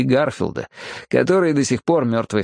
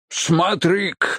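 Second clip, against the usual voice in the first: high, drawn-out cry of amazement; astonished exclamation; 6 semitones higher, slower than usual. A narrator's reading. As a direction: exclaim wide-eyed, stretching the words. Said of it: "воскликнул Хопкинс, вытаращив глаза". (изумлённый протяжный возглас)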